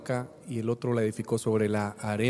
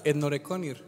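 saying rinoceronte reversed as Etnoreconir; rinoceronte backwards. Shown as a demonstration. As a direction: sound out Etnoreconir as a reversed word. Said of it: "Dilo otra vez".

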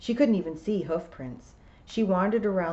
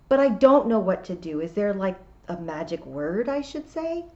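pleading; 3 semitones higher, 6 dB louder than usual. A narrator's reading. Tiffany pleads with the toad.

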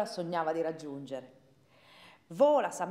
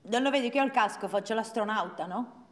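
put-on stubborn little girl; 2 semitones higher, 3 dB louder than usual. Child answers parent defiantly.

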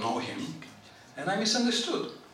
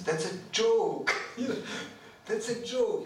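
higher, amused retelling with a laugh; 6 semitones higher than usual. Retold or imitated. Colleague reassuring the worried speaker it's a joke, imitated laughing. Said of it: "Braj Bihari is laughing".

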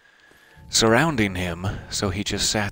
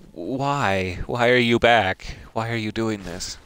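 a hint of a hurt wolf's plea, louder on the middle line; lightly voiced pleading wolf; 2 semitones higher, 4 dB louder than usual. Wolf Sif begging the returning player, mild pleading. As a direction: plead like a wounded loyal dog. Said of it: "he looks at you like".

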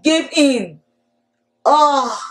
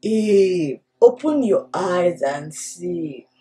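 whispering snake. Acted. Storyteller snake whispering to Eve to look at the fruit. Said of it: "The snake whispered".

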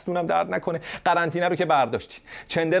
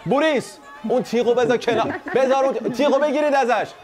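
calling out; 4 semitones higher than usual. Pretend. Calling to imagined crowd.

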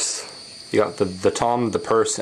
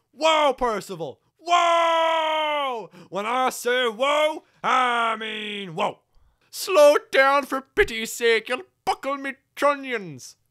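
higher, drawn-out hollering whoas; alarmed old-timer engine; 14 semitones higher, slower than usual. Acted. Engine begging Percival to slow down, alarmed holler. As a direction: holler to rein in a runaway.

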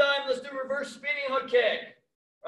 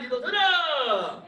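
drawn-out counting call; sharp martial arts commands. Real, not acted. Instructor calling the kick count.

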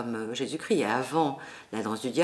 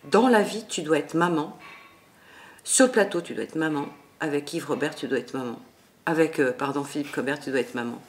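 quoting the director; 4 dB louder than usual. Retold or imitated. Lightly voiced Yves Robert insisting she must be a mother. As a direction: hammer home the repeated order. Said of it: "qui m'a dit".

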